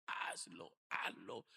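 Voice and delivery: the voice inside pushing him, hushed; a hushed inner voice urging him on; inner voice whisper. Retold or imitated.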